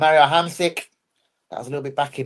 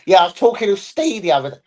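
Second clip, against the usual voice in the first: slightly hammed-up mimicry, higher voice; imitated casual speaker; 4 semitones higher, 3 dB louder than usual. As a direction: mimic someone casually name-dropping, pitched up. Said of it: "Anyone that goes".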